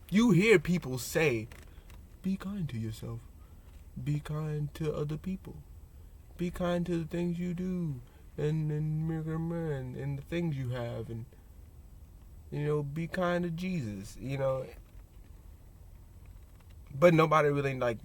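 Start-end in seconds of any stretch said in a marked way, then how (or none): 2.2-14.2 soft, sing-song reciting of platitudes; gently mocking, drawn-out chant; mock-pious slogan voice. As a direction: recite it sweetly like a hollow slogan. Mimics people reciting kindness slogans.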